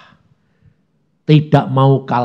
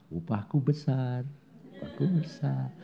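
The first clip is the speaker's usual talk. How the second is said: smiling calm; 13 dB quieter than usual. Retold or imitated. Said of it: "jadi kalau dimarahi".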